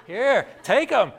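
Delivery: loud, slow fed-up hand-off; exasperated handoff. Pretend. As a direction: dump the kids on him. Exhausted wife handing off kids.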